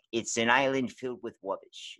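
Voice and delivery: "rubbish" said with a W in place of the R; mock narrator turning the R of "rubbish" into W; R's as W's. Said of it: "says his R's as W's".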